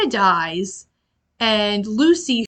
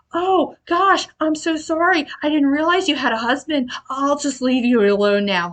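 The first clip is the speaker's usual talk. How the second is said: fake-apologetic Dracula; 4 semitones higher than usual. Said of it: "Dracula's just like".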